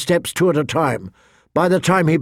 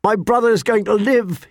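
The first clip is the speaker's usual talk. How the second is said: high-pitched, elated declaration; joyful; 8 semitones higher than usual. A narrator's reading. Jon tells Mormont his brother will survive, joyful. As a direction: announce it high, overjoyed.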